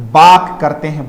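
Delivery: बाक said with no r sound, long open a; bark without r. Shown as a demonstration. Teacher showing children बाक without the r. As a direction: say बाक, drop the r entirely. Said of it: "रे नहीं बोला जाएगा, बाक बोला जाएगा".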